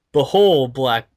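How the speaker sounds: booming villain proclamation; dramatic proclamation. Acted. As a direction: announce it grandly. Dramatic reading of villain line.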